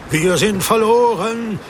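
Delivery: high despairing shout; frightened cry; desperate yell. Acted. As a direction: bellow it as if all is lost. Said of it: "brüllten die anderen".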